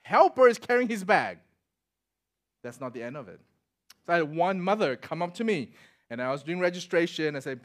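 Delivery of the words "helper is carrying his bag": louder, indignant storytelling rant; disbelieving officer holding back a laugh, loud; mock outraged exclaim. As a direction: play up the disbelief, loudly. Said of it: "I go like".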